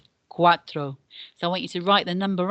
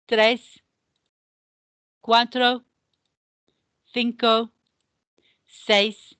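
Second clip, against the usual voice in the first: louder, brighter run through the numbers; brisk counting again; 3 semitones higher, 3 dB louder, much slower than usual. Shown as a demonstration. Teacher counts the numbers again with the class, louder. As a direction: count again with more energy. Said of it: "Otra vez".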